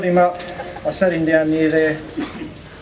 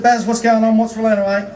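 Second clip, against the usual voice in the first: laughing through it; 7 semitones higher than usual. Real, not acted. Retelling the pool mishap, laughing.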